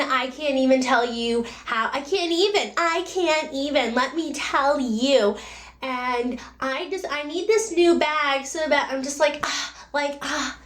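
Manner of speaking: put-on a mild parody of a bored shopping-mad girl; valley girl voice. Mocking how guys imitate women, in a light valley girl voice. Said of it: "always talks like this".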